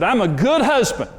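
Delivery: half-yell it back at his wife in the car; mock-yelled insistence, a touch of the old fight; retold yelling. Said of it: "I was yelling at Karen".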